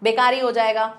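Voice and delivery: बेकार ही run together as be-kaa-ree; wrong inflected form. Shown as a demonstration. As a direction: end बेकार ही on a long ee. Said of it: "नहीं ऐसा नहीं होगा".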